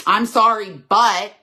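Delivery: a grudging sorry with a loud, pointed "but"; imitating a half-hearted apology that sets up an excuse; insincere apology. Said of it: "it becomes so insincere".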